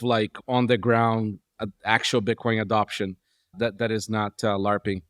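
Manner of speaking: talking while hitting the desk; banging the desk. Real, not acted. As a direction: thump the desk as you speak. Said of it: "stop hitting the desk".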